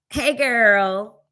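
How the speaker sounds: mock sassy greeting, slightly lifted; sassy man. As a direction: imitate a sassy man saying hello. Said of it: "the man looked sassy as hell".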